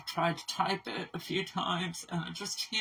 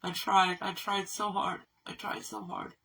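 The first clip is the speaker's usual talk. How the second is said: tearful; 3 semitones higher than usual. Real, not acted. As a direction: voice breaking, close to tears. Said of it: "I'm breaking down in tears".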